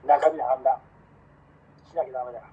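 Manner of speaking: earnest declaration, peak on 中身; said in earnest on request. Real, not acted. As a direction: say it for real when asked. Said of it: "本気に言って。".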